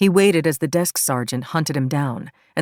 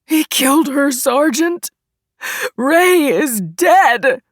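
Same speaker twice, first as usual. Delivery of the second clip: high, loud anguished bellow; frantic full-voiced yelling; 11 semitones higher, 6 dB louder, much slower than usual. A narrator's reading. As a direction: bellow it across the room, stretching the final words. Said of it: "Christoph bellowed from the wall".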